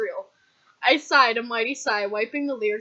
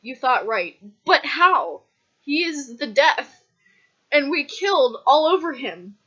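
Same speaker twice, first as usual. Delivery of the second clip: raised, punchy exclamations with stretched words; dramatic outburst; 4 semitones higher, 7 dB louder than usual. Acted. Megan exclaims over the death, dramatic outburst. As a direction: declaim it loudly and high.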